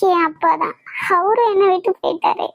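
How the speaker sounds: crying. Acted. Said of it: "அழாதம்மா".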